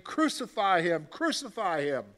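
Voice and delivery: loud, insistent demand; crowd shout. Acted. Crowd crying out to Pilate, angry shouting. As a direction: chant it like an angry mob.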